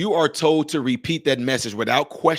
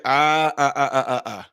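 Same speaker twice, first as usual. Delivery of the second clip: quick "ah, ah" to cut someone off; cutting them off; 2 semitones lower than usual. Real, not acted. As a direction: stop them mid-sentence. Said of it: "I get what you're saying".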